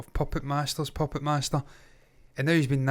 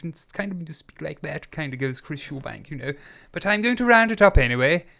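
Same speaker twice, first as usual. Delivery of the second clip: put-on posh English, plummy boxer-meets-actor voice; theatrical posh English accent; posh English gentleman accent. Shown as a demonstration. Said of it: "in this posh English gentleman a-, accent".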